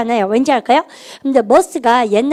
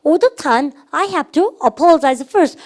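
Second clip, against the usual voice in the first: slow, drawn-out mock complaint; mock grumbling; 3 semitones higher, much slower than usual. Shown as a demonstration. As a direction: grumble it like a put-upon sibling. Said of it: "투덜대고 이럴 때".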